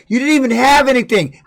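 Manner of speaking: indignant snap at the guy who held on; angry retort. Retold or imitated. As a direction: tell him off, still furious. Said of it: "I got so mad".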